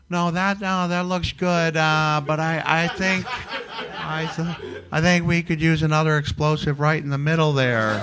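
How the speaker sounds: a hint of a cheerful old wrestler; Terry Funk impression. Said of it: "I heard Terry Funk go".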